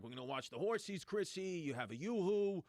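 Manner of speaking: cheerful dad, voice lifting on Chrissy; a father coaxing his kid along. Retold or imitated. Dad promising his kid fun at the racetrack, upbeat.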